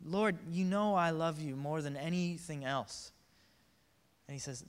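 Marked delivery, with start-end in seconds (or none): 0.0-3.1 slow, mildly strained insistence; distraught, frustrated. Acted. Peter answering Jesus the third time, mildly distraught. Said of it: "kinda distraught, frustrated, said".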